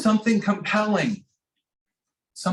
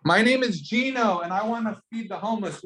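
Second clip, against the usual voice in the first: higher, projected self-introduction; confident call-out; 4 semitones higher than usual. Shown as a demonstration. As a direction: show the student how to call it out. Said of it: "shout it".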